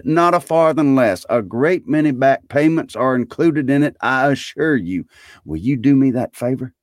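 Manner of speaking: high, earnest Scrooge voice; eager Scrooge. A narrator's reading.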